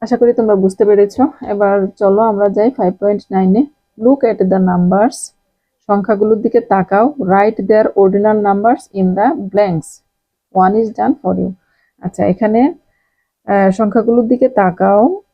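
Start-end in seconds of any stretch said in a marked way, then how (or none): 4.0-5.2 slow reading. Shown as a demonstration. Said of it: "reading the instruction slowly". 7.2-11.5 slow reading. Shown as a demonstration. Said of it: "reading the instruction slowly".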